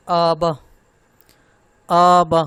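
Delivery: wrongly drawn-out آ, then short با in آبا; first vowel overlong. Shown as a demonstration. Teacher mimics learners' mistake, آ in آبا overlong. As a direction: stretch the opening آ of آبا too long. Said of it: "آ لمبا ہو رہا ہے نا".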